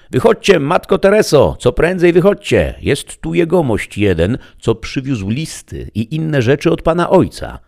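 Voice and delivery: put-on high, loud girlish call; calling out loudly. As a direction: shout for mother from the doorway. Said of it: "zawołała wielkim głosem". (córka woła matkę głośno i wysoko)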